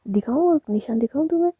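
high, loud teasing challenge; playful threat. Acted. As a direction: dare them with a rising voice. Rui playfully threatens after a bite.

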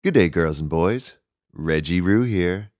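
put-on cheery kids' host. Kangaroo host greeting girls and boys, cheery and loud. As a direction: greet the kids like a bouncy TV host.

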